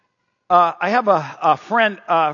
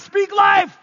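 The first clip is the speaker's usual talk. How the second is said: full shout; 13 semitones higher, 5 dB louder than usual. Retold or imitated. Officer drilling the kids, full shout. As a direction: bellow it high. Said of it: "three times".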